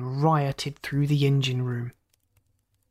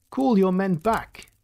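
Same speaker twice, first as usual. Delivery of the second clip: crisp command; 4 semitones higher than usual. Acted. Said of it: "he commanded crisply".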